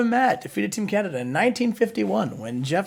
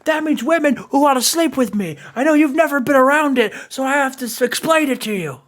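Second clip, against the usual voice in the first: a touch of a louder, cocky heel wrestler; Scott Steiner impression; 2 semitones higher, 4 dB louder than usual. Co-host still voicing Scott Steiner taunting Cornette, mildly louder cocky promo. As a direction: brag it like a swaggering heel. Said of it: "Now he says something about the Hoochie Mamas".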